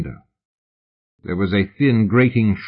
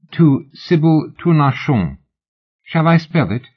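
lightly voiced eager admirer, a touch higher; eager fan; 7 semitones higher, 3 dB louder than usual. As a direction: gush a little as an autograph hunter. Fan answers lady.

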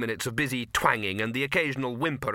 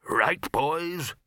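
raised, hearty call to the lads; rally the group; rallying leader; 5 semitones higher than usual. A narrator's reading. Chair rallying the wizards.

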